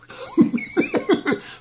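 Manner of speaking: high unvoiced squeal from the mouth; guinea pig squeak. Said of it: "makes the guinea pig noises with his mouth".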